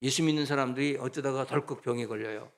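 ordinary talk

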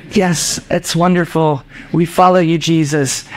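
hint of dutiful devotion; adoring disciples. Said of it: "if that's how they talk".

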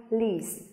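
"lease" alone, long ee falling to s; stressed syllable alone. Shown as a demonstration. Teacher isolating the stressed second syllable, falling "lease". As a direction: give just the stressed "lease". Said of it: "là âm tiết thứ hai".

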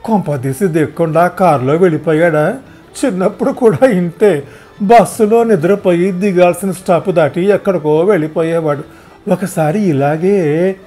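put-on old mother's voice. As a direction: fret aloud like a chatty old woman.

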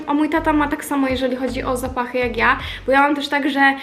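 ordinary delivery

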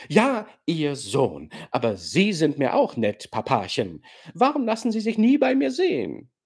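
neckend, verspielt und leicht höher; spöttisch-kokett den alten General umgarnen; kokette Gastgeberin. Acted. Nastassja neckt den General. (Nastassja neckt den General, verspielt-kokett)

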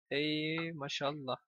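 quiet slow mock blessing. Real, not acted. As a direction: murmur Ey maşallah drawn out. Repeated softer.

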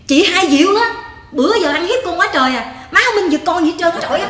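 put-on tattle like a sulking child; whiny complaint. Daughter suddenly switching to whine to her mother about her sister. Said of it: "Mày đổi tông lẹ quá".

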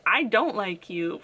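slow, dry "I don't like you" with "don't" leaned on; a mild deadpan turn against the character; retold dislike. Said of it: "I was like".

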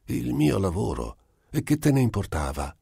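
alto e incredulo, più veloce alla fine; stupito. Acted. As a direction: domanda incredula, voce alta. Einstein interroga il diavolo. (stupore incredulo, voce più alta)

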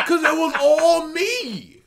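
laughing through a mock brag; mocking his bragging while laughing at it; mock boast through laughter. Mimicking the gamer bragging, laughing. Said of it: "That's his mindset".

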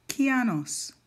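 Kianos said clearly as kee-AH-noss, starting high; careful name pronunciation. Shown as a demonstration. Teacher telling the iPad how to say it, careful Kianos. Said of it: "tell the iPad how I want this pronounced".

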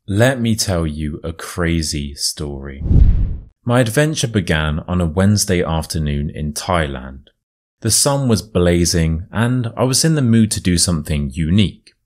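storyteller reading a true tale; story narration. A narrator's reading. Reads the story aloud.

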